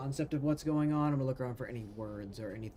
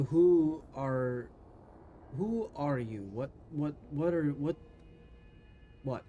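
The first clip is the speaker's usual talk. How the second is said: flustered stammer; 3 semitones higher, 3 dB louder, slower than usual. Acted. That's in character.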